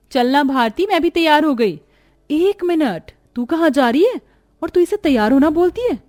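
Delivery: high, sneering disbelief; spoiled sister mocking her elder sister; scornful mockery. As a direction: look her up and down and scoff. Sister mocking other's looks.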